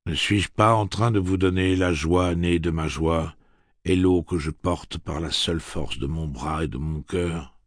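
the gunslinger replying to the villagers; lightly voiced gunslinger. Roland speaks.

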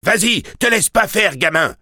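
high-pitched shout from afar; crying out. A narrator's reading. Onlooker across the street cheering the boy on, crying out. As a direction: egg him on from across the street. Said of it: "s'écria quelqu'un de l'autre côté de la rue".

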